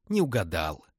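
smirk it with malicious glee; gloating smirk. Acted. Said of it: "злорадно усмехнулась Лиза". (злорадно усмехаясь)

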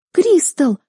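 shocked gasp. A narrator's reading. Sister gasping at Kristel's blunt words, shocked. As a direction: gasp it, eyes wide. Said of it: "ахнула сестра".

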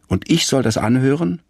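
lightly voiced grumpy neighbour scolding a child; angry old man. A narrator's reading. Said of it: "sagt Herr Krupschott böse". (leicht gespielter, wütender Nachbar, höher)

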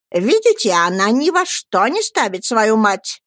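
a mild indignant outcry; exclaiming. Acted. Offended mother crying out to everyone, exclaiming. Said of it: "воскликнула миссис Марклегем".

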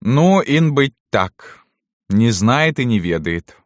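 high, drawn-out concession; seeming to soften. A narrator's reading. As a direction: let the servant off, as if relenting. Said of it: "как бы смягчилась несколько Салтычиха". (как бы смягчаясь)

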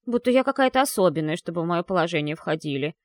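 fast, huffy snort. Acted. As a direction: huff it out from the foam. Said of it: "профыркала София из пены".

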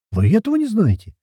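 high, shocked question; aghast he doesn't know; horrified surprise. A narrator's reading. Belkina aghast at the hero's ignorance, high and shocked. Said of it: "ужаснулась Белкина".

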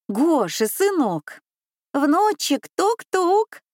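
громко и высоко, ласково зовя; позови ребёнка через закрытую дверь; зовут из-за двери. A narrator's reading. (стучатся и зовут внука)

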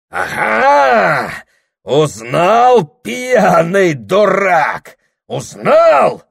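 высоко и громко; злорадствуй; торжествующий крик. Acted. Дьякон торжествует. (дьякон злорадно кричит Прохору)

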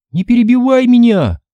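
high, sharp irritated snap. A narrator's reading. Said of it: "раздражённо бросила Минди".

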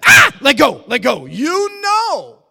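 high, loud mock shout; hammed-up panicked shout. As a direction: yell like you can't let go.

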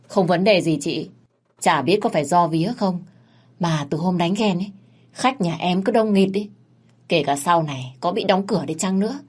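lightly voiced young thug, earnest; loyal Sơn. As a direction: pledge loyalty to his big sister.

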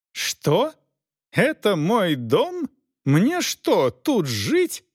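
high, shocked lady's voice, words drawn out; a spoilt wife who can't believe her eyes; incredulous high female voice; disbelieving noble lady. A narrator's reading. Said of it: "не верила Элеонора Августа".

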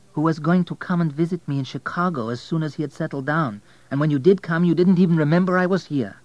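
high-voiced waitress taking him to task; high, pressing female-figure reproach; reproachful Zafir.

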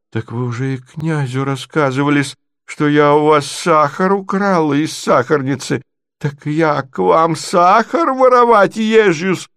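offended provincial lady. Acted. Natalya protests a theft rumour, rising indignantly.

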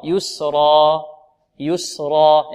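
يسرا held for two beats, no glottal stop at the end; correct recitation. Shown as a demonstration. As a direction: end يسرا on the long alif, no hamza. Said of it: "خطأ".

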